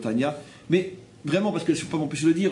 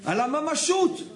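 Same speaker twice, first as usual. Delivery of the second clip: mocking baby talk; 11 semitones higher than usual.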